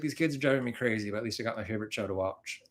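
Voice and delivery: lightly put-on country-singer-style accent; hint of a country singer's accent, tired-mom complaint. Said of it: "me doing a country singer accent".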